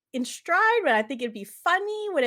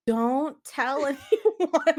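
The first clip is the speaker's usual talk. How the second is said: put-on scared kid; 5 semitones higher, 6 dB louder, much slower than usual.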